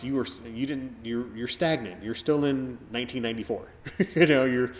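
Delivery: building from plain to a loud exasperated scold; exasperated rant. Retold or imitated. Telling off old acquaintances stuck in the nineties, building to a loud exasperated scold.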